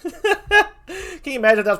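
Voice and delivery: high, laughing disbelief; cracking up at the interruption. Real, not acted. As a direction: giggle through the question.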